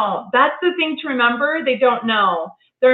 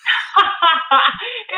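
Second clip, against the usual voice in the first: laughing; 8 semitones higher than usual. Real, not acted. Reacts to story.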